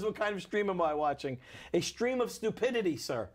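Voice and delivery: put-on lilting comic English accent. Comedian answers a stream viewer, English accent. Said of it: "doing the English accent".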